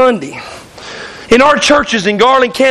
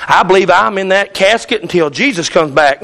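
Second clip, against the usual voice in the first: quoting a doubter; 6 semitones lower than usual. Retold or imitated. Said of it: "They say".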